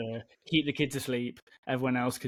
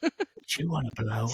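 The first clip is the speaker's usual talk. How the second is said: low quick street dealer; slower than usual. Pretend. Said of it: "drug dealer voice. Whispering".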